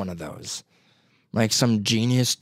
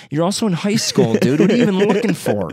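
swearing tirade; 8 semitones higher, 4 dB louder than usual. Retold or imitated. Mock rant at McDonald's cashier.

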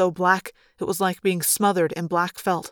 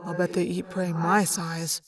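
muttered; 2 semitones lower, 7 dB quieter than usual. Acted. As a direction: mutter it under your breath. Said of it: "Tobias muttered".

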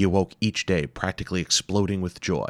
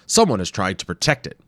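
lightly voiced worried professor; 3 semitones higher, 6 dB louder than usual. Wimple warns.

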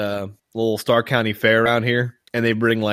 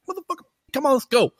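high-pitched mock scolding; acted exasperation; 12 semitones higher, faster than usual. Owner fetches the runaway pig, high mock exasperation.

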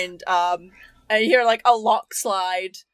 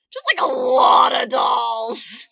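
drawn out and shouted; yelling it again, slower; slow mock shout; 3 semitones higher than usual. Shown as a demonstration. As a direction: belt the line out slow for effect. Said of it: "repeated louder".

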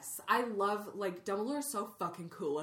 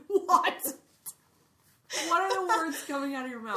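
higher, louder, incredulous laugh-question; fast amused what-are-you-saying; real amused disbelief; 9 semitones higher, 8 dB louder than usual. Real, not acted. Reacts to a side-fling joke.

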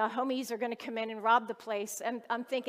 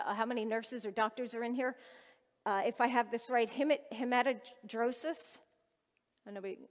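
usual speaking voice

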